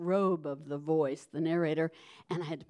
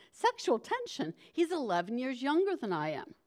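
shocked disbelief; 5 semitones higher than usual. Retold or imitated. To the director, incredulous at the idea. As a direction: pitch jumps up on sexual, incredulous.

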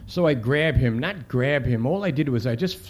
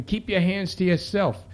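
raised pitch, restrained scream; retold scream; 6 semitones higher than usual. Cop screaming at the mother over keys, mildly acted. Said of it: "And I start screaming".

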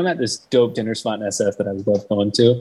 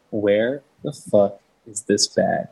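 slow, drawn-out exasperated question; retold exasperation, spacing out each word; much slower than usual. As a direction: stretch it out slowly, fed up. Acted exasperation at missing bag.

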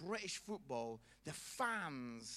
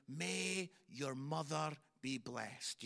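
mock polite scream; 4 semitones lower, slower than usual. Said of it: "I think they were screaming".

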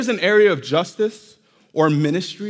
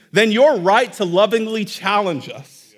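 slow down to lean on "lovingly"; stress on LOVINGLY. Real, not acted. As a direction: give "lovingly" deliberate weight within the phrase. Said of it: "Emphasis on lovingly".

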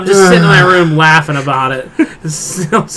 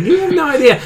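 retold tearful reply; 10 semitones higher than usual. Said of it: "and I'm crying".

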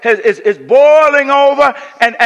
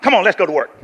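brushing it off; 3 semitones lower, much faster than usual. Shown as a demonstration. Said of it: "I say".

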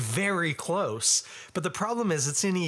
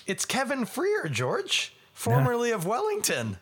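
mock exasperation; 8 semitones higher than usual. Mock-exasperated answer to friend's text.

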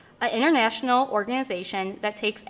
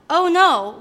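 surprised; 7 semitones higher, 4 dB louder than usual. Acted. Realizes the show ran out of time.

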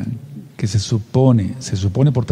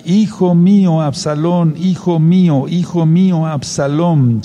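weeping lament; 5 semitones higher, slower than usual. Acted. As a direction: cry out the lost son's name in grief. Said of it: "el rey se turbó ... y lloró". (lamento de padre que llora, más alto y más fuerte)

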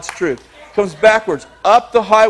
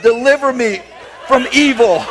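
mild begging prayer; 5 semitones higher than usual. Retold or imitated. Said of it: "lay on the floor and beg God".

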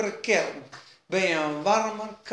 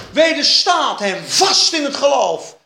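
loud, ringing sermon cry; forceful proclamation; 3 semitones higher, 8 dB louder than usual. Acted. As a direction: proclaim the verse at full force. Preacher proclaiming the Bible verse.

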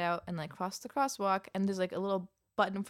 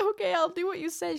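meek compliance; 11 semitones higher, 4 dB louder than usual. Retold or imitated. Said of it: "And I was like".

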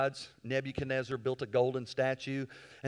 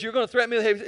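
amused defiance; 7 semitones higher, 7 dB louder, much faster than usual. Acted. Paul mocks again, louder.

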